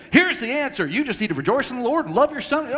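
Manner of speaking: high-pitched mock pat answer; glib advice-giver. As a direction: imitate someone handing out easy pious advice. Mocking pat advice he rejects.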